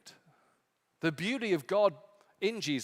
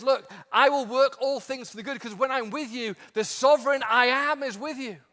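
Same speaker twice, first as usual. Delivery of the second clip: higher and louder, full of conviction; preacher voicing Jesus's promise; soaring promise; 7 semitones higher, 7 dB louder than usual. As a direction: proclaim it over the crowd. Jesus promising to work all things.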